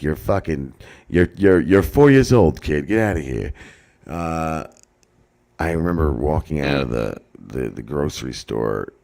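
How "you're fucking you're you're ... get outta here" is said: loud scolding rising in pitch; mock yell. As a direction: bark the cops' disbelief. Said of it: "And they're like".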